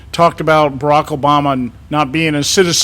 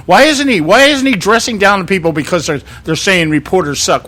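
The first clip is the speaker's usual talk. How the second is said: mock indignation; 2 semitones higher than usual. Mocking media's demand.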